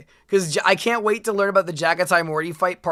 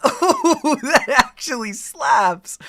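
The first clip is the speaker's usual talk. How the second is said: louder, higher, hyped-up; excited; 5 semitones higher, 4 dB louder, slower than usual. Real, not acted. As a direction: really sell the hype. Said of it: "second, bigger take".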